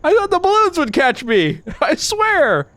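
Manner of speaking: high laughing excuse. Real, not acted. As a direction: giggle through the words. Laughing after crash.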